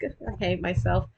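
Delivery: mean it, quietly and bitterly; genuine self-hatred. Shown as a demonstration. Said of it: "That's how you do it. With genuine self-hatred".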